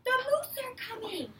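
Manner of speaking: excited call. Acted. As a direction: tell everyone the news, thrilled. Girl calls out the arrival.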